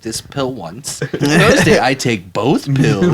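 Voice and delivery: put-on Jewish accent. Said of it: "You made him sound Jewish as fuck".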